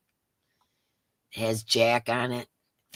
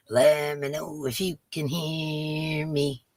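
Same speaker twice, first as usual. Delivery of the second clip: slow singsong check; slower than usual. Shown as a demonstration. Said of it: "with my horrible voice".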